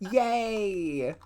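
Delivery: high, teary cheer; a squeaky happy yay; excited yay. Real, not acted.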